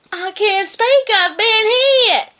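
hammed-up wounded little dog; timid dog. Drover voice in story.

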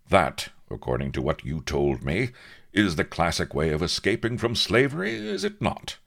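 put-on lightly declaimed old-time swagger; mock-heroic officer, assured and emphatic; heroic captain, resolute. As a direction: lay out the bold plan grandly. Avery boasts of plan.

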